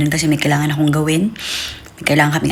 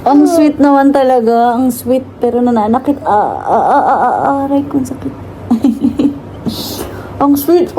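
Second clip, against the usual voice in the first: laughing complaint; 8 semitones higher than usual. Real, not acted. Mother laughing as baby kisses and pulls hair, high pitched. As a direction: laugh through the pain.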